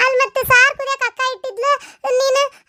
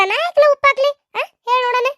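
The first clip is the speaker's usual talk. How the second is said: put-on indignant girl; 4 semitones higher than usual. Young girl indignantly denying she salted it. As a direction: throw it back in protest.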